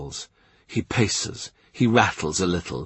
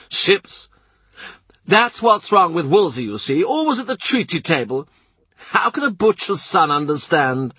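the blustering Duke of Norfolk, pitched higher; gruff duke; 6 semitones higher than usual. A narrator's reading. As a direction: play the proud, impatient duke. Duke rants about war.

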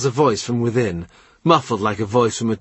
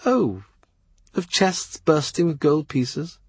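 wistful lady voice; 6 semitones higher than usual. Acted. Mary Howard teasing.

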